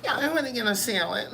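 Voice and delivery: high, light mock white lady ordering; white woman voice. Mocking white folks ordering a salad, high and light. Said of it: "White folks, say".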